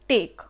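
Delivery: टेक as one unbroken syllable; one clean beat on टेक. Shown as a demonstration. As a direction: say टेक in a single go, no break. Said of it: "stoppage समझ में आया बोलने में?".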